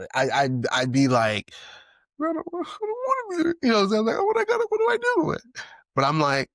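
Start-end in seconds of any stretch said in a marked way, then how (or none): 2.2-5.4 high falsetto pleading; hammed-up helpless whine up high; mock distress. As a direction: whine it like you're lost and helpless. Imagined distressed self.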